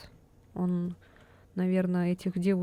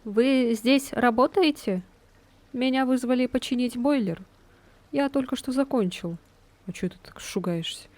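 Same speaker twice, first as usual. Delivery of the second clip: jumpy repairman voice; 4 semitones higher, 4 dB louder than usual. Acted.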